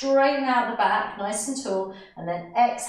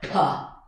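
loud puff of release; sharp release breath; 5 semitones lower, 3 dB louder than usual. Shown as a demonstration. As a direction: burst out the breath. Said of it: "just let it go".

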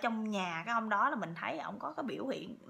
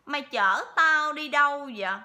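loud, higher, gruff voice of the spirit; gruff possessed voice; 6 semitones higher, 9 dB louder than usual. Retold or imitated. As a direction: bark at the wife like a stranger possessing him. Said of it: "ổng nói cái chuyện cái ẻo". (giọng ma nhập cọc lóc, to và gắt)

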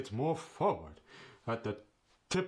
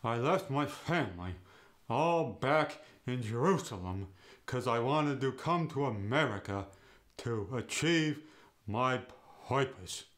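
Yiddish accent, rising on stressed words, falling at the end; a Yiddish speaker's lilt, up on the stress and back down. Shown as a demonstration. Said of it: "For example".

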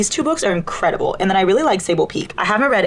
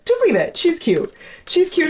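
mock squeal; 10 semitones higher than usual. Real, not acted.

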